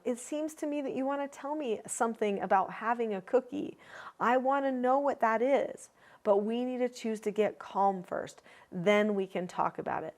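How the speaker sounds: put-on gentle, even voice for a small child; calm words to a young child. Shown as a demonstration. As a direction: coax a little one calmly. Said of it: "So I might say to a younger child".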